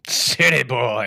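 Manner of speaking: slow, drawn-out Southern drawl; hammed-up Southern twang; Southern accent. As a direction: echo it in a mock Southern drawl. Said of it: "I don't like Southern talk".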